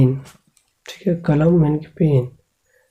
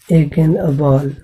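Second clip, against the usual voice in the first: slow teaching; much slower than usual. Shown as a demonstration. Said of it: "teaching the article slowly".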